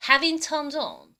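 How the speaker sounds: very slow, deliberate English; slow repeat demo. Shown as a demonstration. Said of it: "한 번 더".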